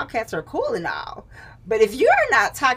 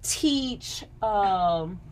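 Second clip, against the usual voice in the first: aunt's voice; 4 semitones higher than usual. Retold or imitated. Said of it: "she was like".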